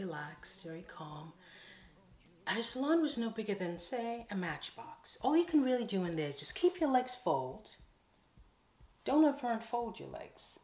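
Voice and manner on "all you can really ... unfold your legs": louder, higher mock warning; comic exaggeration. Real, not acted. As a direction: play up the tiny salon. Joking about tiny salon.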